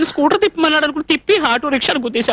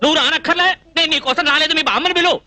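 higher-pitched, flustered insistence; insistent repeat; 4 semitones higher than usual. Acted. Visitor telling the girl to fetch her grandmother, insistent.

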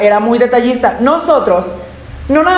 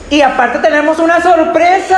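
excited announcement; 5 semitones higher than usual. Acted. Announcing a surprise.

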